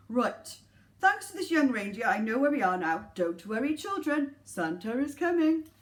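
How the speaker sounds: lightly voiced Santa. Santa speaking.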